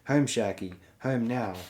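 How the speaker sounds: mild scream. Acted. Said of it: "Rickon remembered himself and screamed".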